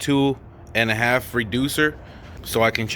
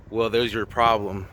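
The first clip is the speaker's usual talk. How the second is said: attempted Texas accent. Shown as a demonstration. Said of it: "my Texas accent".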